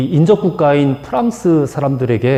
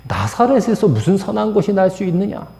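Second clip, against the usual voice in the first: higher, scoffing repeat of the line; a sneering dismissal of Nazareth; blunt retort; 5 semitones higher than usual. Shown as a demonstration. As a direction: toss it off with open contempt. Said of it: "이렇게 퉁명스럽게 말하는 거예요".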